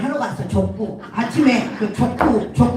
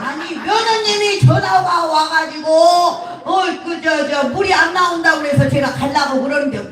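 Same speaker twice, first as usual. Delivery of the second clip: put-on higher, half-successful Gyeongsang accent; attempted Gyeongsang accent; 3 semitones higher than usual. Repairman explains daughter-in-law called, attempted Gyeongsang accent. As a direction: explain in a shaky-footed Gyeongsang dialect. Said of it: "내가 경상도 말이 정말 안 된다".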